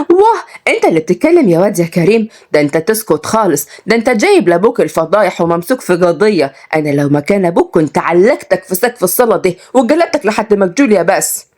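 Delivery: mildly venomous Sa'idi scolding; spiteful. Acted. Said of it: "وقالت بغل". (صعيدية بتتكلم بغل)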